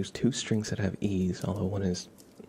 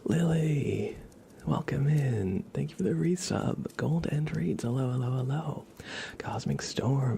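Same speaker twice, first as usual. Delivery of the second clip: bright chat greeting; 6 semitones higher than usual. Real, not acted.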